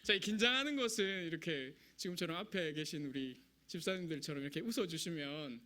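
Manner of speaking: usual speaking voice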